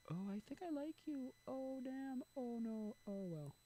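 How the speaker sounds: high, slow falsetto lament; acting out a helpless little "oh no"; mock late realization. Speaker replaying his thoughts as women leave, mock forlorn.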